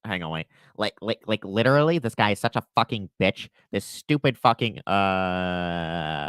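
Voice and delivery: nose pinched nasal whine; whiny nasal impression. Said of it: "nasally bitch voice".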